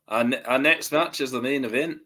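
bad Scottish accent; a rough try at a Scottish accent. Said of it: "that's my best Scottish accent".

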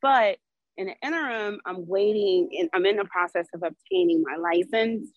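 winded from walking the dog; breathless, talking between breaths. Real, not acted. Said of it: "I'm out of breath".

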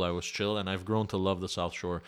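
usual speaking voice

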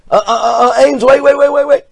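high, loud call to stop him. Acted. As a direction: call him back, urgently. VP calls Ames back.

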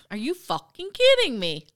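put-on high-pitched, half-hearted British accent; hammed-up British disbelief; bad British accent. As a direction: attempt an indignant Brit, not very well. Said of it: "that's not my best British accent".

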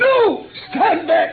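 high, loud cry to stop; sharp shout. Acted. Sick detective to his friend, shouting him back. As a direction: fling the command out sharply.

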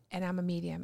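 soft, low, measured prompting; emotional prompt. Retold or imitated. Advisor leading the student's admission, hushed. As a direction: gently offer the words to repeat. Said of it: "It was very emotional".

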